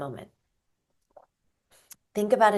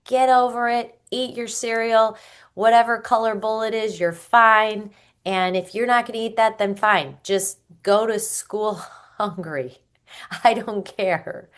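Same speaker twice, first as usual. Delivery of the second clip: loud, higher, exasperated yelling; yelling parent; 4 semitones higher, 7 dB louder than usual. Retold or imitated. Parent yelling at a child over the cereal bowl, loud and fed up. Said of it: "You might start yelling and being like".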